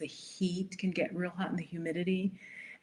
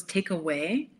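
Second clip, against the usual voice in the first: lightly mocked Italian accent. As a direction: mimic an Italian waiter's English, just a touch. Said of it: "but with an Italian accent".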